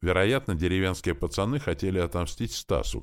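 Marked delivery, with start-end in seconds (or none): none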